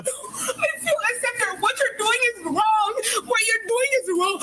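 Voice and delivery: upset crying protest. Real, not acted. Arguing with officer, upset.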